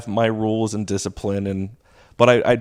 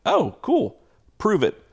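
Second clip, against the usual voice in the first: sarcastic challenge; 10 semitones higher than usual. Retold or imitated. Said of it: "I go".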